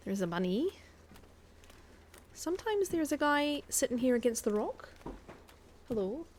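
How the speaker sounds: light put-on Scottish accent while gaming; a hint of Scottish brogue, casual chat. Streamer chatting to her stream viewers in a light Scottish accent. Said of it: "we're going to do a little bit of Scottish".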